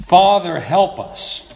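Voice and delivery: mild cry out on "Father," easing after; retold cry for help. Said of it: "I remember crying out".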